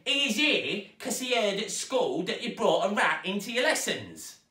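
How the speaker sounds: high, loud scolding stepmother. A narrator's reading. Stepmother scolding Zoe, high and loud. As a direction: scold the girl.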